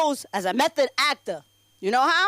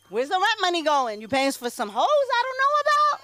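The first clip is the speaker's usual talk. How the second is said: climbs high into a mock accusing squeal; rising accusation; 6 semitones higher than usual. To her husband about the rent money, shrill mock accusation. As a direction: pitch it way up, half joking, as if catching him out.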